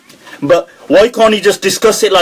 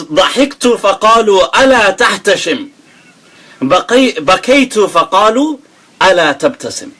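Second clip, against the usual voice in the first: reciting Arabic poetry; faster than usual. Shown as a demonstration. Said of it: "He says".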